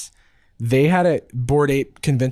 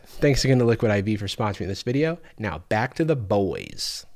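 ad read. Acted. Sponsor ad read.

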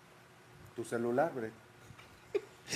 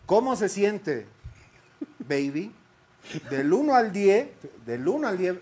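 mock dramatic reading; 4 semitones higher, 5 dB louder than usual. Reading song lyrics as poetry.

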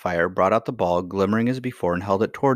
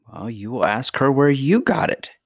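higher-pitched, teasing smile; smiling; 5 semitones higher, 4 dB louder than usual. A narrator's reading. Lady answering her granddaughter's worry, smiling. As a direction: answer with a smile, leaning on YOU.

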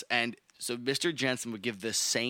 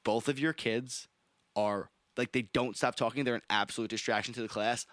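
teacher voice; 2 semitones lower than usual. Retold or imitated. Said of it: "Mister Jensen would say".

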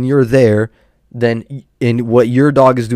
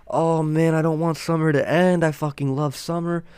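mock girly whine; 6 semitones higher, 4 dB quieter than usual. Mocking girls who love summer.

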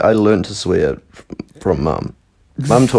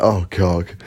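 our usual way; 2 semitones lower, 3 dB quieter than usual. Shown as a demonstration. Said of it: "we say it".

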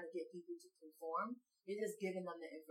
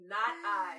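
snooty bored cat; 3 semitones higher, 9 dB louder than usual. Pretend. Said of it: "said the cat".

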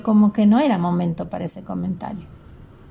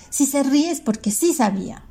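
put-on angry girl; 5 semitones higher than usual. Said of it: "gritó otra niña furiosa".

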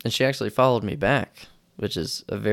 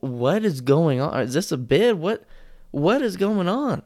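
confused table; 7 semitones higher than usual. Retold or imitated.

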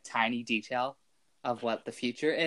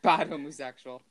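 louder mock self-scolding; Dobby; 7 dB louder than usual. Joking to friends about acting gay, mock self-punishment. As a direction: play at punishing yourself, punchy and loud. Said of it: "I beat myself up like Dobby".

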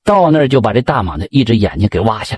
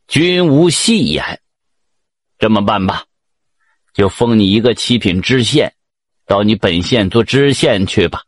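lightly voiced stately monarch; emperor; 3 semitones lower than usual. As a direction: hand down a decree with measured authority. Emperor pronounces his decree.

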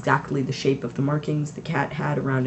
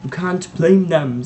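gently; 3 semitones higher, 7 dB louder, slower than usual. A narrator's reading. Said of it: "said Dumbledore gently".

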